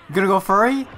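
excited teasing. Real, not acted. Teasing a character on screen.

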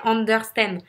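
UNDERSTAND in a French accent, R sounded; French-accented UNDERSTAND, every syllable pronounced. Shown as a demonstration. Coach resuming the demo word, French accent. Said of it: "je reprends l'accent français".

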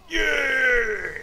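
loud, high cheer of triumph; victory shout. Real, not acted. Gamer cheering a play on stream, loud victory shout. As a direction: yell it out like you just won.

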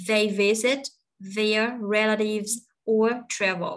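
"visit", "relatives", "travel" stressed, "their" and "or" light; slow teacher's model with a pause after "visit"; weight on "visit", "relatives", "travel"; content words stressed. Shown as a demonstration. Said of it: "những cái đứa còn lại mình có quyền lướt".

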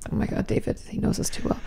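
whispery, out of breath from laughing; breathless laughing. Real, not acted. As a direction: wheeze it after a laugh.

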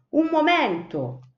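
high, loud shout of Un momento, slow and firm; cry out to stop. A narrator's reading. Cipì shouting to stop the hungry sparrows, loud and high. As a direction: halt the hungry flock with a loud call. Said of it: "quando Cipì gridò".

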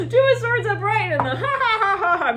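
laughs through the card name, pitched high; breaking into giggles mid-reading; laughing. Real, not acted. Laughing over a tarot card.

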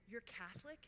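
Catholic lifted into a question; retold surprise in the rising tune. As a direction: ask "You're Catholic?" with a rising end. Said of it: "Question mark".

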